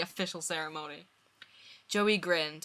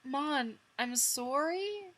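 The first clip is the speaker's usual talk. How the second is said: scared; 8 semitones higher, much slower than usual. Acted. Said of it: "Chandler looked terrified".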